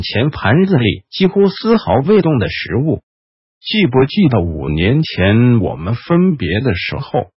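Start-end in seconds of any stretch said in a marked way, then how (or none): 3.6-7.3 creaky whisper. Acted. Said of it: "轻柔而嘶哑的低语". (轻柔嘶哑的低语)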